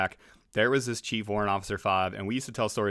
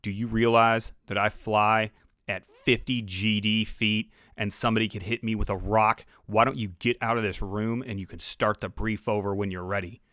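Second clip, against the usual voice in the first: slightly lowered, stern pilot; deep voice. Retold or imitated. Veteran pilot ordering intel officer to restart brief, deep stern voice. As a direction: lightly imitate a veteran's deliberate dressing-down. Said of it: "had this deep voice and he goes".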